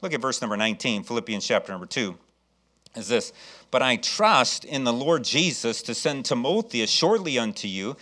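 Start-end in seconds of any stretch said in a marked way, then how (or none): 3.7-7.9 slow, measured Bible reading; solemnly paced pulpit recitation; scripture reading. Real, not acted. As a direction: read the verse deliberately, stretching the last words. Reads Bible verse aloud.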